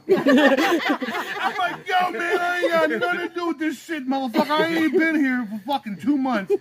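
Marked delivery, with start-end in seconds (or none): 1.9-6.5 high, agitated mock pleading; worked-up, hammed-up objection; retold protest. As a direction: protest loudly that you want no part of it. Acted alarmed protest to his boss.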